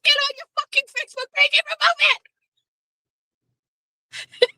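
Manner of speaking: high, fast furious yell down the phone; angry yell. Retold or imitated. Angry yell at Todd to take the post down. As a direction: let him have it, fast and high.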